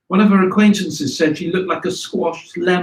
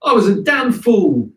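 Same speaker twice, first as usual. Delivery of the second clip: higher, louder gruff self-reproach; a lightly voiced chauffeur scolding himself; chauffeur cursing himself; 5 semitones higher, 4 dB louder than usual. Chauffeur after his horse lost, lightly voiced self-scolding. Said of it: "he would say".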